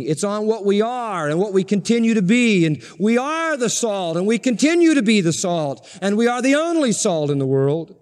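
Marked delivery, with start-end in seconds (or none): 3.0-4.2 "are" lifted above the words around it; stress on are. Shown as a demonstration. Preacher explaining that salt is what we are, stressing "are". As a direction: put the weight on "are", then let the pitch fall. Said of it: "the stress is on being".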